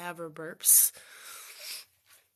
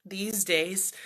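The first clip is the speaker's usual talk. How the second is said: whispering. Real, not acted. Whispered aside.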